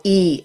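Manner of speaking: "e" said as the "ee" in "eat"; "e" as a clear ee vowel; vowel demonstration. Shown as a demonstration. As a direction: say "e" as a long ee sound. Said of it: "as in eat".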